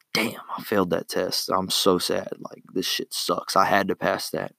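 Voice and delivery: quiet, deflated grumble, dropping to a breathy hush; moping over a failed test. Pretend. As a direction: sulk quietly as if you just failed. Imagined student who failed test.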